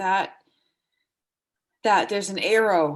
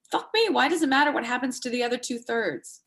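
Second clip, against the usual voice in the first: sudden high burst of exasperation, then still raised; exasperated outburst; 4 semitones higher than usual. Acted. Wife snapping at husband over prognosis details, exasperated outburst. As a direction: blurt it out, fed up with the questions.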